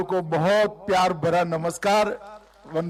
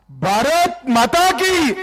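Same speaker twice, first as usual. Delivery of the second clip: drawn-out rally call, loud and high; rally speech; 6 semitones higher, 8 dB louder, slower than usual. Real, not acted. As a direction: lead the crowd chant slowly. Leader calls crowd to chant.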